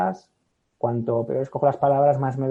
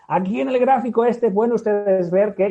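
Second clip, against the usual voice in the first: lecturer voice; 7 semitones higher, 6 dB louder than usual. Retold or imitated. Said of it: "estoy levantando el brazo".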